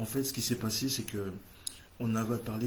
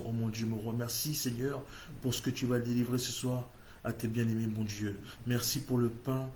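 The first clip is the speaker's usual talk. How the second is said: fervent prayer. Acted. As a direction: pray aloud for the congregation with growing fervour. Leads an opening prayer. (prière fervente qui monte en intensité)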